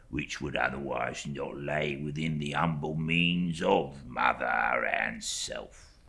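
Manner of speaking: slow, hushed servile voice; a slow, whispered, cringing clerk; fawning humble clerk. Acted. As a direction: lay the humility on thick. Uriah's voice in story reading.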